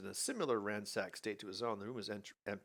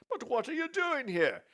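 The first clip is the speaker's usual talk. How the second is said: put-on old father voice; 5 dB louder than usual.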